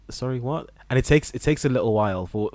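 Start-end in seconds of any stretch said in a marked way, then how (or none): 0.1-0.7 higher-pitched, mildly confused query; puzzled. Retold or imitated. Doctor newly working among English patients, mildly confused. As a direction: ask it as if you didn't quite follow. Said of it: "I'm a little bit confused".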